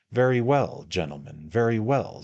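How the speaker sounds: loud, indignant outburst of wrath; wrathful. Acted. Mister Pickwick to the lawyers, loud and wrathful. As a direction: rise up and let the anger ring out. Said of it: "rising in person and wrath".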